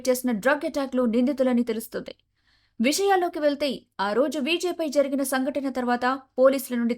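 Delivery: emphatic breaking-news read; news reader. A narrator's reading. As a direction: deliver it as a TV crime bulletin, punching key words. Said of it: "news reader చెప్పడం ఆలస్యం". (Breaking news చదివే శైలి)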